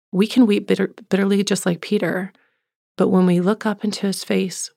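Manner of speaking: usual speaking voice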